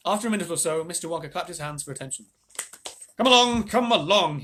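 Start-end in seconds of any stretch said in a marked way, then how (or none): 3.2-4.4 higher, louder brisk call. A narrator's reading. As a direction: call the group to hurry. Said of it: "he called out".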